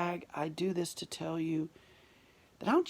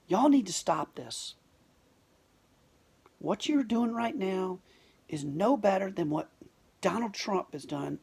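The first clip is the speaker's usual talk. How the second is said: megaphone call; 3 semitones higher, 4 dB louder than usual. Retold or imitated. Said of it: "took the megaphone, turned up the volume".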